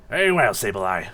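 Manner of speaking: commanding villain. Acted. Dusknoir ordering Sableye to dispose of three captives, commanding. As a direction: give orders with calm authority.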